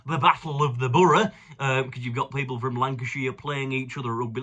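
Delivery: put-on mild Lancashire-style northwestern accent. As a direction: slip into a lightly put-on northwestern English accent. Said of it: "I'm doing a northwestern accent".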